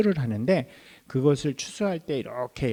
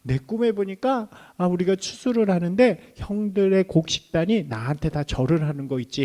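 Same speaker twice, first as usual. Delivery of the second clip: boastful little brother; 5 semitones higher than usual. Retold or imitated. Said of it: "막 이러면서 얘기했을 것 같아요".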